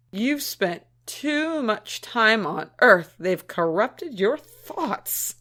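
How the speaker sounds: slow, emphatic disapproval; scandalised. Acted. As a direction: draw out each word in appalled reproach. Scandalised reply to sexual reproduction theory.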